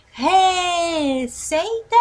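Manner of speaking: "REEE-ceita?", high, long first syllable; stress on first syllable. Shown as a demonstration. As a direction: wrongly stretch the RE of "Receita", questioning. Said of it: "é a sílaba tônica?".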